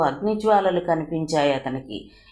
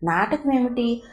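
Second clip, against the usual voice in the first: higher, baffled question; bewildered; 3 semitones higher than usual. Acted. Accused friend asking Siri in confusion, bewildered. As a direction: ask as if you can't follow her at all. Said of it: "అయోమయంగా చూస్తూ అన్నాడు".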